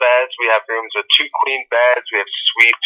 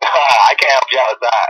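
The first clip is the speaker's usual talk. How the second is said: 1 laughing. Real, not acted. Clerk stifling laughter at prank call.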